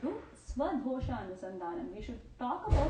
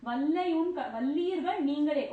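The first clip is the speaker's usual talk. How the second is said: higher, louder retort, throwing the words back; retorting Gopika; 3 semitones higher, 6 dB louder than usual. Retold or imitated. Gopika inside hurling the charge back at her friends, raised and sharp. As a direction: snap back the accusation, raised voice. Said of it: "she accuses Andal and her friends".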